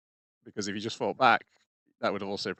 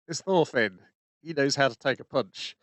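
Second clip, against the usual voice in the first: Wolf impression; 4 semitones higher, 4 dB louder than usual. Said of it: "We also get Wolf going".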